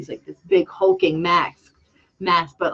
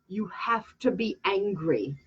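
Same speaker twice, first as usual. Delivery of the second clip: coaxing hush; 8 dB quieter than usual. Retold or imitated. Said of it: "I'm like".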